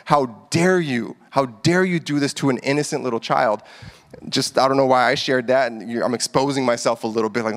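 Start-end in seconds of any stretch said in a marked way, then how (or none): 0.1-3.6 imagined furious scolding. Retold or imitated. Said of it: "my mind could think of was violence".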